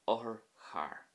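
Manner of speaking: "Othar char" with a short, quick first o; quick sharp O. Shown as a demonstration. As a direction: keep the opening of "Othar char" brief. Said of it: "was quick and, um, relatively sharp".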